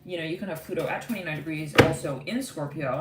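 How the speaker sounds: ordinary talk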